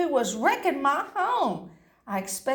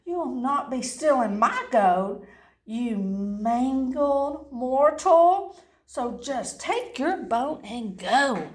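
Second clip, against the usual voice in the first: angry scolding; 2 semitones higher, slower than usual. Acted. Angry leprechaun scolding the dog.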